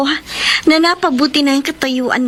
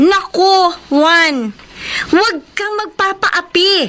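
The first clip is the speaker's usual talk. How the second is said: rising exhortation; 6 semitones higher than usual. Acted. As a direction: push him to stand up, climbing in pitch. Pia urges Juan to fight back. (lalong tumataas na pagpupumilit)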